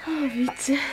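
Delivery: tender soft whisper. Acted. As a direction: breathe his name gently. Tender moment between them. (teder gefluisterd)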